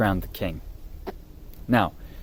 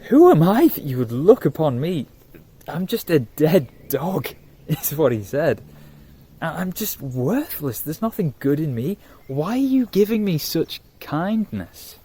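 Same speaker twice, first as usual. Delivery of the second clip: higher, pleading and astonished; a lightly voiced humble servant, raised and incredulous; amazed, humbled servant; 4 semitones higher than usual. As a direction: beg to know why you deserve this. Mephibosheth pleads, amazed and unworthy.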